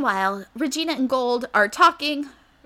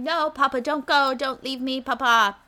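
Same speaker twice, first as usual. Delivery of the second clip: put-on begging child; 2 semitones higher than usual. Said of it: "Rumple is begging and pleading".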